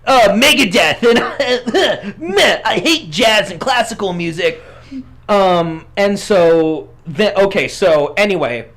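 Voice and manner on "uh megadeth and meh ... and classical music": lightly voiced whiny teen with laughs; a hint of a snotty teenager; brat teenager voice. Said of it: "young brat teenager voice".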